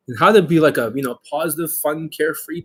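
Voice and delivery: ordinary delivery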